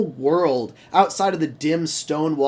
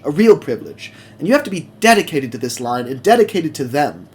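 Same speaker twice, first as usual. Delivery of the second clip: louder, firm lecture on caring; serious mentor laying down the rules; earnest Thomas; 4 dB louder than usual. Acted. Thomas telling Mavis why she's trusted, louder and earnest. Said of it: "Thomas kinda looks at her like".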